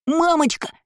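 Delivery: put-on high-pitched hysterical child crying out; hysterical wail. A narrator's reading. Spoiled boy calls his mother for rescue, hysterical. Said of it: "захлебывался истерикой Лайер".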